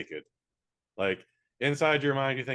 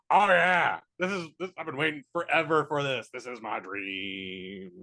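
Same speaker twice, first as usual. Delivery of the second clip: pervert; 2 semitones higher than usual. Retold or imitated. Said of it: "middle-aged perverts just going".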